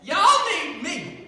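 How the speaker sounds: slow, loud drawl with a laugh; drawled proclamation. Pretend. Youth speaker voicing Jesus, slow loud drawl. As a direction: stretch out Y'all need me, grinning. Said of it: "he more like just said".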